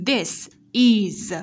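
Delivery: "this is" said apart, "is" ending in buzzing z; careful "this is" with s then z; teacher models the final z of "is"; Z ending demo. Shown as a demonstration. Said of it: "S ở đây chúng ta sẽ đọc là âm Z".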